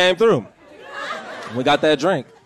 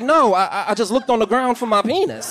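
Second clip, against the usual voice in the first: put-on higher, innocent little boy voice; child voice; 6 semitones higher than usual. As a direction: play the son, small and sincere. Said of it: "he was like".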